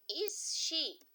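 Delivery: "is he?" rising high as a question; high inverted question; question tune. Shown as a demonstration. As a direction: lift "he" up into a question. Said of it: "vamos perguntar".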